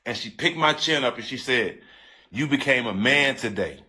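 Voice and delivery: low, heartfelt retelling; moved near tears. Real, not acted. Retelling a mom comforting him as he cried, moved. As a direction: quote her tenderly, moved yourself. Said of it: "bringing tears to my eyes today".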